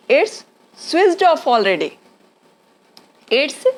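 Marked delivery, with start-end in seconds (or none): 0.1-1.9 very slow, drawn-out words; slow demo. Shown as a demonstration. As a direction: lay it out slowly for learners. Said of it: "अगर आपको बोलना है".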